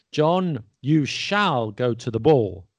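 "shall" drawn out and stressed, slow order; emphatic command. Shown as a demonstration. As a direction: give a slow, weighty order, leaning on "shall". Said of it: "an order or emphatic, uh, command".

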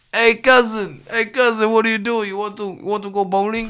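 high, eager pal calling again; game cousin voice. Retold or imitated. Imitating game cousin's calls.

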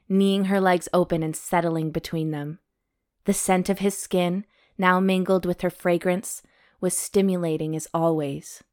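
calm novel read-aloud; story narration. A narrator's reading. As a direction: read the romance chapter evenly. Reads romance novel aloud.

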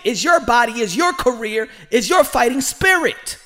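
loud, urgent pleading rant; passionate shout. Real, not acted. Host urging Gervonta Davis to demand his fights, loud. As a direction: shout it at him like a fired-up big brother.

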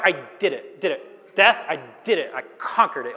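lightly acted victory boast; swaggering. Preacher voicing Jesus triumphant over death, swaggering. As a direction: punch it out with a touch of swagger. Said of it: "have a little bit of a swagger to say this".

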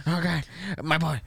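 Palpatine voice. Acted. Palpatine addressing his apprentice.

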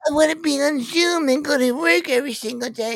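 very high-pitched mocking voice; whiny worker imitation. Mocking staff who want to work from home, whiny imitation. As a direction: squeak it like a spoiled complainer.

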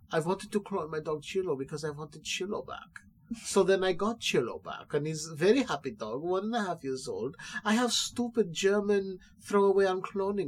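hint of a movie-villain German accent. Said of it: "someone doing a German accent impression".

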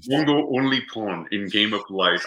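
broken-English dim brute, lightly done; Mongo impression. Host echoing Mongo's line, lightly voiced brute. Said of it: "when Mongo says".

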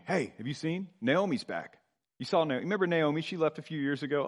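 gossiping townsfolk. Acted. Townsfolk trading news that Naomi is back, gossiping. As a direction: pass on the local news, lightly voiced. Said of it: "Imagine people scurrying about, talking".

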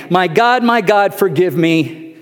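real tears breaking into a retold prayer; crying prayer. Real, not acted. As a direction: beg forgiveness while welling up. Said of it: "I began to cry while saying".

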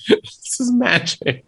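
slow, drawn-out mystical pronouncement; slow mock mystic. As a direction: say it like it explains everything. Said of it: "And that's all he said".

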